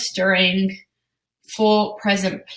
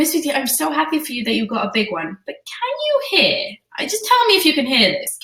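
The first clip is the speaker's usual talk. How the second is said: gentle parent voice; 5 semitones higher than usual. Shown as a demonstration. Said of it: "really gently".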